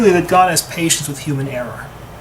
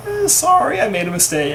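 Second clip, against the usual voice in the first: sheepish apology; 6 semitones higher than usual. Retold or imitated. Korach backing out of the fight with a high sheepish sorry. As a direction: voice jumps high on a quick, embarrassed sorry.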